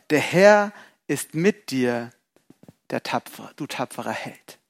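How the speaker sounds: slow, soft and low affirmation; tender blessing. Acted. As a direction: bless him gently and slowly. Angel's greeting repeated.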